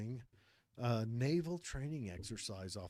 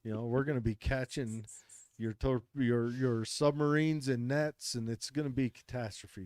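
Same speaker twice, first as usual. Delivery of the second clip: defiant fishermen; 2 semitones higher, 4 dB louder than usual. Retold or imitated. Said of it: "the fishermen said".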